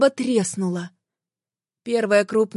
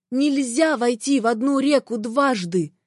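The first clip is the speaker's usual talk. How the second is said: heated objection; 3 semitones higher than usual. Acted. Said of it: "горячо возразила я".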